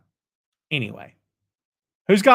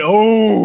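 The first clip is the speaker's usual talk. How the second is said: crowd "oh"; 3 semitones higher, 5 dB louder than usual. Retold or imitated. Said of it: "the crowd went".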